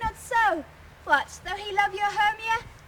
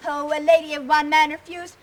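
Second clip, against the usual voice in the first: loud, wounded indignation; louder hurt protest; indignant; 6 dB louder than usual. Acted. Helena accuses Lysander of mockery.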